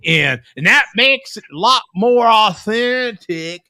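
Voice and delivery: mock Southern barbecue-guy accent. Shown as a demonstration. Host showing how barbecue guys talk, put-on barbecue accent. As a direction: lay on a barbecue pitmaster's accent, slowing at the end. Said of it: "they talk like this".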